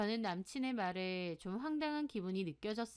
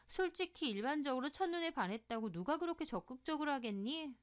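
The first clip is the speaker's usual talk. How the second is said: higher-pitched, mildly scandalized tattling; scandalized gossipy friend; 4 semitones higher than usual. Acted. Friend reports the boyfriend's nightlife to her, scandalized. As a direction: pass on gossip with a touch of shock.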